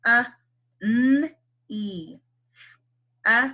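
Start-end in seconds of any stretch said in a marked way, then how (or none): 0.8-2.2 "n, E" with the E drawn out as a long ee; sounding out. Shown as a demonstration. Teacher models the right sounds for kids. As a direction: stretch the "E" sound clearly. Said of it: "we would have to say it".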